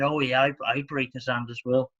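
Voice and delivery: put-on failed accent, vaguely Welsh or Jamaican; botched vague accent. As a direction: attempt a muddled Welsh-Jamaican accent, badly. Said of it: "I don't know what accent that was".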